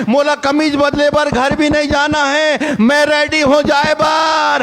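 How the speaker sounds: high, slow, rising ready chant; eagerly insisting there's no going home; eager readiness. Retold or imitated. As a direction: sound ready to leave this instant. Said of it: "पवित्र आत्मा बताई".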